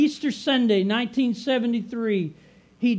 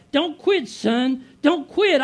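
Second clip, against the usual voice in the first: a hint of a father calling out, higher and louder; father's urging; 4 semitones higher, 3 dB louder, slower than usual. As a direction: urge him on like his late father would. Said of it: "I hear my dad".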